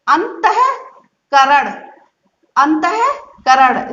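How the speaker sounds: अंतःकरण drawn out, each syllable held; slow syllable reading. Shown as a demonstration. Teacher sounding out अंतःकरण to pupils. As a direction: stretch अंतःकरण slowly. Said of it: "इसको भी आप".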